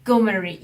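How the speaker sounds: 고메리 given its own stress. Shown as a demonstration. Teacher showing where the missed stress falls, stressed 고메리. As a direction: lean on the start of 고메리. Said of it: "여기서 좀 강세가 있는".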